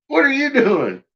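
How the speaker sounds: high sing-song voice to the dog; high baby-talk to a pet. Acted.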